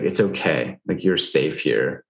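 lightly acted soothing, slowing at the end; a touch of calm comfort; gentle reassurance. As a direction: reassure someone who is crying, unhurried. Voicing comfort to someone crying.

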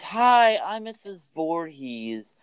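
high, chirpy greeting that drops off; a sweet lady introducing herself, put on; Missus Voorhees.

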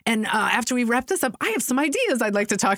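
lightly voiced oblivious guy switching to small talk; oblivious caller. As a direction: rattle it off as if nothing happened. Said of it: "He's, like, screaming at them".

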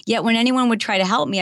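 ordinary talk

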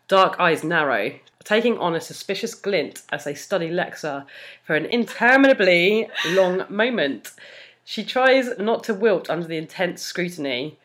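measured fan fiction reading; story narration. A narrator's reading. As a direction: read it out like an audiobook narrator. Reads fan fiction aloud.

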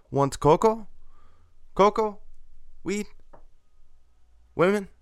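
high, punchy mock dealer's offers; imitated street hawker. Street dealer soliciting tourists outside taco stand, imitated sales pitch.

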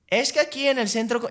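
high, loud mock complaint; imitated agitated woman. Agitated señora recording a story at the mall, high and loud. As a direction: act out a worked-up señora recording her grievance. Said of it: "empieza a hacer un, o sea, a grabar una historia".

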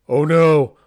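loud, high gasped oh no; mock horror. Father imitating his daughter's panic, loud and high. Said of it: "She's like, gasps".

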